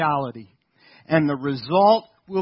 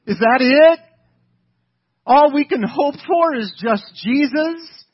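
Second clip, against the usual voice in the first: put-on loud, high, indignant Yiddish-accent kvetch; Jesus, Yiddish accent; 6 semitones higher, 11 dB louder than usual. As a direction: Yiddish accent, offended "chopped liver" complaint. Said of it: "Jesus is standing on the sidelines going".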